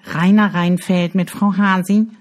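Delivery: squeezed, strained throaty voice; pressed voice. A narrator's reading. Stoffel hams up a list of guests in a pressed voice. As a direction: force the words out through a pressed throat. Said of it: "knödelt Stoffel mit gepresster Stimme".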